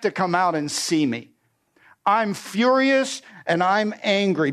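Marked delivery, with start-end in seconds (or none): 2.1-4.5 furious. Acted. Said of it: "But Naaman was furious".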